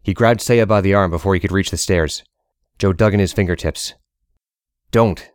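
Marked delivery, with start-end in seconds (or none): 4.9-5.3 pleading. Acted. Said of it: "he pleaded".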